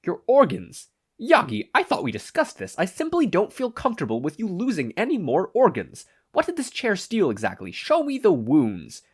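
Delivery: high, loud exasperated yelling; frantic worried yell. A narrator's reading. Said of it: "Sasaki yelled".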